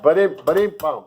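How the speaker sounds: spoken drum sting after a joke; vocal rim shot. Pretend. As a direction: mimic a comedy drum fill with the mouth. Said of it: "rim shot".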